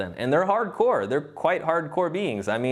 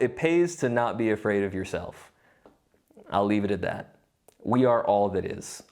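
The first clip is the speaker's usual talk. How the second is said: ordinary talk, nothing marked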